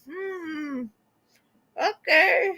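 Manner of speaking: high laughing okay; amused doubtful okay, laughing. Retold or imitated. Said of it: "And I'm like".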